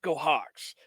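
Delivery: short and contained, mimicking his intensity; lightly voiced intense coach. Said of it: "just in this really intense voice".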